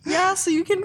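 can't keep a straight face; mock sarcastic shout dissolving into giggles; laughing through it. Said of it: "I shouted sarcastically".

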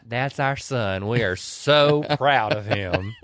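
slow, deadpan proud mother; mock proud. A singer joking about her husband, slow and deadpan. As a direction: say it slowly with mock pride. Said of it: "And a singer goes".

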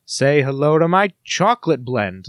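slow, hint of fake Spanish accent; lightly mock a jingle performer; Al Pacino. Star pitching a coffee drink, imitated singing. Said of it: "he sings, um".

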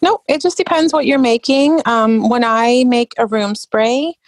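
put-on American accent; fake American accent. Oil seller answering a question on blends, fake American accent. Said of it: "that was my fake American accent".

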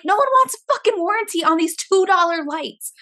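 re-enacted exasperated yell, pitched high; pissed-off yell. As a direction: yell it like you've snapped at the register. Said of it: "so pissed off that I yell".

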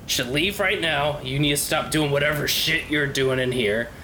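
irritated, threatening dwarf; gruff dwarf druid. Acted. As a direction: chase the stranger off, fed up. Lore confronts the intruder.

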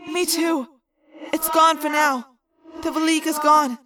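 a hint of young girl; Cassie's voice. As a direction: speak as the gentle girl. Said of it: "Cassie said".

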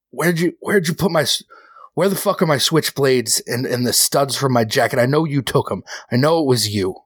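mild mock fury at a thief; angry accusation. Rocco searching Johnny's things, demanding his switchblades back.

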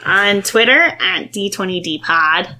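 lightly squeaky kobold; a hint of lizard chatter; squeaky yappy lizard chatter. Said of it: "in your best kobold voice".

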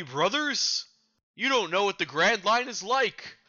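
worried pirate. Acted. Frightened pirate warning the crew, urgent. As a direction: plead with the crew. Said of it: "playing the various characters".

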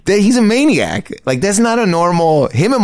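high, laughing, slowed; can't believe it, laughing through it; laughing disbelief. Real, not acted. Comic laughing at his friend's plan, high and amused.

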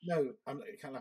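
usual speaking voice

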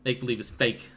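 put-on a blunt little girl shutting it down; deadpan kid voice. Girl voiced, loud, slow.

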